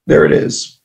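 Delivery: breathed repeat, almost no voice; whispered echo. Retold or imitated. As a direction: whisper it to yourself. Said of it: "I was like".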